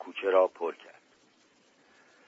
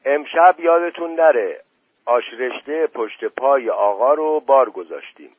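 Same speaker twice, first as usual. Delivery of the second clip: loud, high-pitched call across the yard; raised voice; 3 semitones higher, 7 dB louder than usual. A narrator's reading. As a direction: call out the dinner reminder so everyone hears. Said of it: "صدای زن دایجان بلند شد". (با صدای بلند، صدا زدن)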